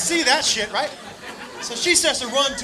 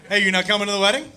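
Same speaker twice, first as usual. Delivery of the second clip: low, quick casual question; buddy's dad asking; 4 semitones lower, faster than usual. Retold or imitated. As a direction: ask it offhand, like a puzzled dad. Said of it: "And his dad goes".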